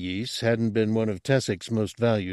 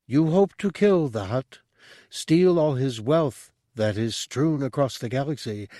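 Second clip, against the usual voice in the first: higher, calm all-knowing monk; mystic monk voice; 5 semitones higher than usual. Acted. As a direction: speak as a serene mystic. Monk's speech read aloud.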